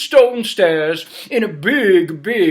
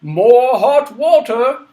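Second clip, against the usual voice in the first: slow, loud command; king demanding more water; 4 semitones higher, 6 dB louder, slower than usual. Acted. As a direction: order it royally. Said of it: "And then he said".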